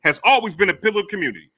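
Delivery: hyped-up wrestling promo. Acted. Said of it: "This nigga cutting a promo on me".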